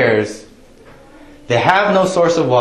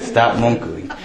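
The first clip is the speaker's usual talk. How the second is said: laughing scold; slower than usual. Shown as a demonstration. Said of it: "just say".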